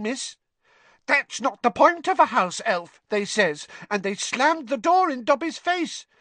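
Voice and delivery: high, squeaky elf voice; squeaky house elf. A narrator's reading. Dobby telling Harry of his search for work, squeaky. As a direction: squeak it out earnestly.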